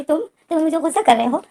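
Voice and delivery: a retold, tearful protest; tearful complaint. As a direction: plead like a hurt lover close to tears. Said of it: "wing जो रोता है और बोलता है".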